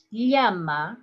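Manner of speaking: llama said again in a second accent; llama with a changed ll. Shown as a demonstration. Teacher demos the second llama sound. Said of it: "the three different ways".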